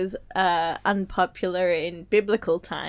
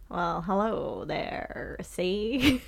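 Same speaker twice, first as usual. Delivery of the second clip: gangster criminal voice; much slower than usual. Acted. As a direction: play it like an old-time crook. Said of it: "let's start with you being a criminal".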